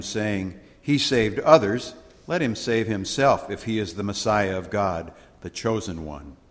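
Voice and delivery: measured, ceremonial scripture read; solemn Gospel reading. Acted. Priest reading the Gospel aloud to the congregation, solemn.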